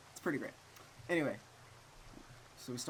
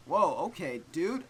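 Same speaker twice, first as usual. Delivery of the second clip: startled whoa; 4 semitones higher, 7 dB louder, slower than usual. Real, not acted. Reacts to victim blaming.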